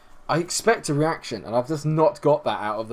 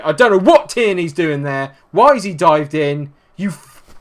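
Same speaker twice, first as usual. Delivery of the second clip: loud, raised-pitch disbelief at a blunder; exasperated; 3 semitones higher, 8 dB louder than usual. Real, not acted. Manager berating a defender who dived in, exasperated. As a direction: demand an explanation from your defender. Goal conceded, blames own defender.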